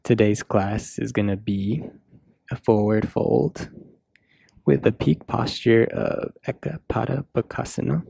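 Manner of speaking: measured yoga cues with long pauses; yoga class guidance. Real, not acted. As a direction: guide them through each breath and pose, unhurried.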